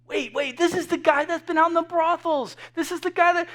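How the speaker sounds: high-pitched protesting onlooker; acted scandalized disbelief; incredulous objection. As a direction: cut in with disbelief, pitch jumping up. Objecting onlooker to the father's praise.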